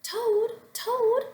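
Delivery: high calling shout; shouting Frog. A narrator's reading. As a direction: call him out of the house. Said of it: "cried Frog".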